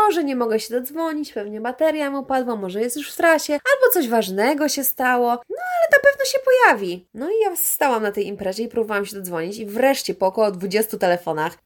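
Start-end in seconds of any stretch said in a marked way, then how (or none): 5.3-7.1 high, mock-chirpy reassurance; forced cheerful excuse. Assuring friends that her boyfriend will come, mock-chirpy high voice. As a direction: chirp it out, pretending all is fine.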